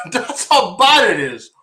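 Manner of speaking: slow laugh through the burn. Real, not acted. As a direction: chuckle it out in pain. Laughing at own pain.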